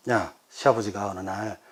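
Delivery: normal talking voice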